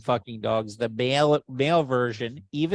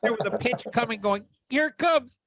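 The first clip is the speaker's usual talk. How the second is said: excited retelling; 7 semitones higher than usual. Real, not acted. Excited retelling of the missed joke.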